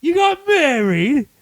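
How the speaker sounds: high, drawn-out incredulous question; mock disbelief. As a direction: act out a character's astonished question. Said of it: "and she goes".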